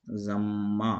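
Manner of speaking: ज़म्मा drawn out, holding the double m; doubled meem. Shown as a demonstration. Teacher shows students the doubled letter, ज़म्मा with held m. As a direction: say ज़म्मा slowly with a long, held "mm". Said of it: "मीम को यहाँ जो है दो बार पढ़ा गया".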